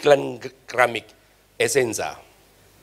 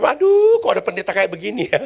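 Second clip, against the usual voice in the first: amused exclamation; 4 semitones higher than usual. Retold or imitated.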